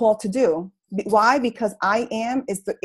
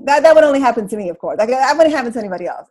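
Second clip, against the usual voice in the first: excited; 7 dB louder, faster than usual. Real, not acted. Laughing self-pity aside.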